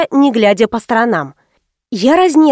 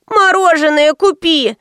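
put-on higher, pushy kid's demand; demanding child; 6 semitones higher than usual. Child begs mother for ice cream, demanding. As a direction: whine it out like a spoilt child.

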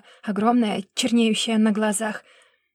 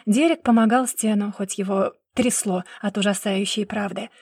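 ordinary delivery

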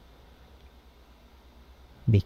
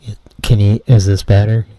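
through a wall; 10 dB louder, faster than usual. Acted. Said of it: "Not really".

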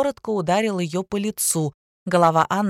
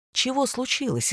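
amazed; 5 semitones higher, 4 dB quieter than usual. A narrator's reading. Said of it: "изумился он".

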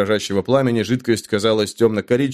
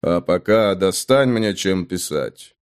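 low slow command; 5 semitones lower, slower than usual. Acted. Hero orders innkeeper.

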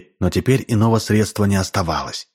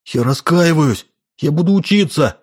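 abrupt desperate pleas; 6 semitones higher than usual. A narrator's reading. Boy desperately promises the lady to repent, abrupt and high. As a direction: blurt it out as a last resort. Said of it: "отрывисто говорил он".

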